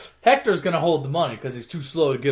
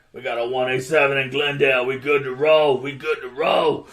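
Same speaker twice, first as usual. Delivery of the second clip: walkie-talkie call; 4 semitones lower than usual. Retold or imitated. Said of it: "on the walkie-talkie. He's like".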